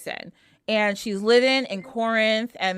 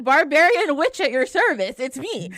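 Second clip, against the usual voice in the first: laughing mock boast; 5 semitones higher, 3 dB louder than usual.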